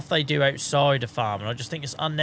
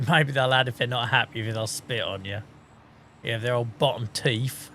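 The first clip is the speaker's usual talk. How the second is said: alpaca impression; 4 semitones lower than usual. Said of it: "It's my alpaca impression".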